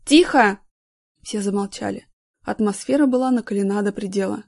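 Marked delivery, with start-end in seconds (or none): 0.1-0.6 a loud stern command; raised voice. A narrator's reading. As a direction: cut the shouting off. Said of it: "повысил голос Горин".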